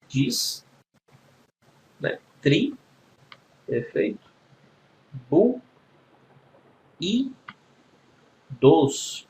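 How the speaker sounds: "distribuídos" broken into separate syllables with long pauses. Shown as a demonstration. Teacher splitting distribuídos for pupils, syllable by syllable. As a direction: sound out each syllable of "distribuídos" on its own. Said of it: "vamos separar aqui silabicamente distribuídos".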